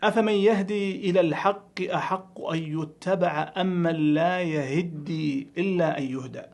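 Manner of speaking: measured recitation, "لا يهدي" as yahiddī; doubled d and i after h in "لا يهدي"; correct reading. Shown as a demonstration. Teacher reciting Surat Yunus correctly, "لا يهدي" as yahiddī. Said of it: "ومنها قوله تعالى في سورة يونس".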